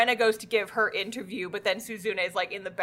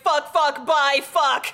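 flustered exit; 5 semitones higher, 5 dB louder, slower than usual. Retold or imitated. Acting flustered character fleeing.

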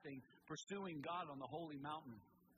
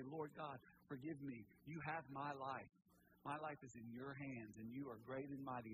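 humble prayer; 4 semitones lower, 3 dB quieter than usual. Pretend. Voicing a humble repentant prayer.

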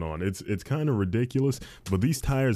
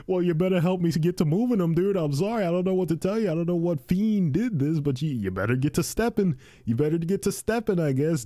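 laughing mock reply; 8 semitones higher than usual. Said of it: "I'm like".

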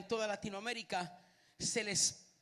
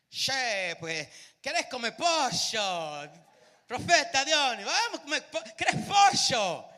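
put-on Argentine accent; 3 semitones higher, 8 dB louder than usual. Preacher mimics Argentine speaker.

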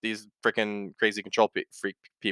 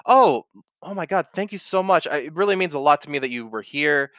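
excited thanks; 3 semitones higher than usual. Pretend. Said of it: "if they say".

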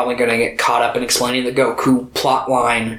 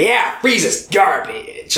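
mock dismissal; 4 semitones higher, slower than usual. Mimicking dismissive fans.

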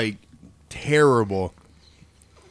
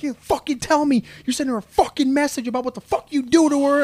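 high, loud yelling aunt; cartoonish fury; 13 semitones higher, 3 dB louder than usual. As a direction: scream it like an enraged aunt. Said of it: "she just fucking yells at me".

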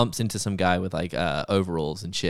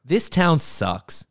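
sneering dad; 6 semitones higher, 3 dB louder than usual. Retold or imitated. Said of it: "voicing the rude dad".

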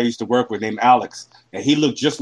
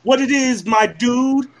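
imitated Black American accent; 9 semitones higher than usual. Guest imitating an Australian guy's take, mock Black American accent. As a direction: put on an exaggerated, high Black American accent. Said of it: "do a black guy from America".

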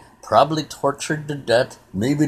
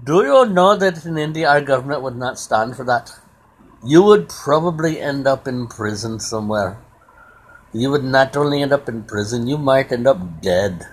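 lightly put-on Indian accent; Rajneesh's Indian accent. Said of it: "I love that accent".

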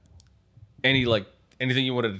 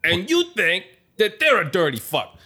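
higher, insistent mock mobster lecture; a wiseguy laying out a for-real fact; Italian gangster character; 6 semitones higher than usual. Gangster lecturing his host about cockroaches in Italian accent.

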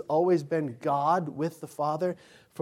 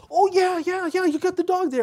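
high, loud, carefree voice for Mark; breezy coworker; 7 dB louder than usual. Retold or imitated. Mark waves off the dad's warning, high and carefree. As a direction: brush it off like a know-it-all visitor. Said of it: "he's like".

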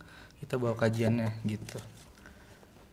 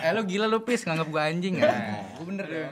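rowdy party animal; 6 semitones higher than usual. Real, not acted. Drunk friends teasing, tipsy banter.

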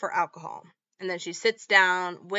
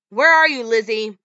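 shouting for her; 2 semitones higher, 10 dB louder than usual. Retold or imitated. Boyfriend searches the house for the hiding girl, loud shout. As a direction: yell through the house for her.

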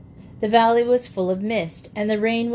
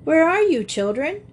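high, louder carefree call; blithe calling; 9 semitones higher, 4 dB louder than usual. A narrator's reading. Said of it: "a blithe voice calling".

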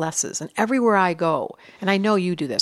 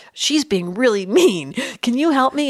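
mild pleading; 4 semitones higher than usual. Retold or imitated. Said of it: "I said to her".

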